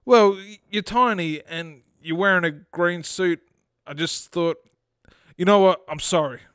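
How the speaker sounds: mildly sheepish, hesitant explanation; apologetic. Acted. Fred backs down to the little man, mildly apologetic. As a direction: back down with a touch of apology. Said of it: "Fred responded apologetically".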